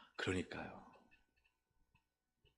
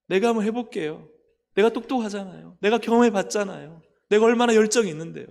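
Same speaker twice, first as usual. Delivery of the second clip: higher and louder, building into a proud brag; boastful self-confidence; 8 semitones higher, 8 dB louder than usual. Pretend. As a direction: puff yourself up like someone sure they can do it alone, getting faster at the end. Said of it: "내가 밀어보겠다는 거예요". (점점 높아지는 자신만만한 과시조)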